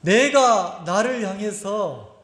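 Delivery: ordinary delivery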